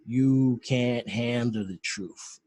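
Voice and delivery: the big line. Retold or imitated. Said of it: "you got the big".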